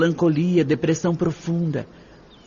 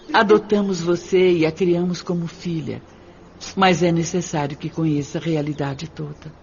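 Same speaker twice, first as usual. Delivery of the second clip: plain reading voice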